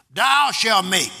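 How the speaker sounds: slow, with "make" drawn out and leaned on; stress on make. Shown as a demonstration. Pastor telling the congregation to underline "make", slow and stressed. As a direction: spell out "make" slowly. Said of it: "underline that word make".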